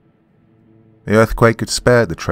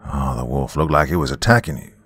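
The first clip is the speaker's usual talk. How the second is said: a lightly voiced man's slow drawl, a little lower; 4 semitones lower than usual. Stranger explains the shot to Dawn in a light drawl. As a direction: drawl it out easy, just a hint of a man. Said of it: "said a man's voice in a slow drawl".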